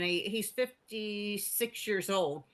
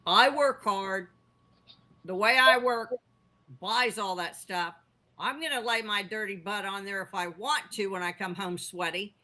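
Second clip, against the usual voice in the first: dad voice. Retold or imitated. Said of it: "this is how my dad said".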